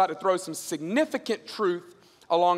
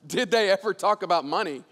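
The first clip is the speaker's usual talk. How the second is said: amused echo; 2 semitones lower than usual. Acted. Laughing echo of the question.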